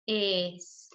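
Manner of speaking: "Espacio" in separate syllables, long pauses between; split into syllables. Shown as a demonstration. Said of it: "Vamos a separar la palabra espacio". ("Espacio" separado en sílabas, con pausas largas)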